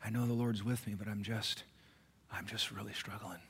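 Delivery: quiet, sinking imitation of someone struggling. Church member confiding to the pastor, struggling and subdued. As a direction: trail off softly, as if admitting defeat. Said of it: "you hear it in their voice".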